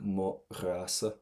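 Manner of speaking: "ra" slightly phlegmy in the back of the throat; slow "Mo ra sa" with a throaty GH, not a K. Shown as a demonstration. Teacher demonstrates an unpleasant sound, phlegmy back-of-throat "ra". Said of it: "kind of phlegmy as well in the back".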